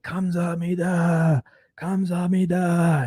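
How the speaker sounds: mock a drunk bowing and thanking slowly; drunken thanks. Drunk customer on his knees thanking the clerk, slurred. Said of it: "I got really fucking drunk".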